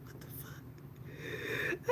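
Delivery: slow, breathless whisper. Real, not acted. To the stream, whispering disbelief at her makeup. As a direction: drag it out in a hush. Laughing at her own work.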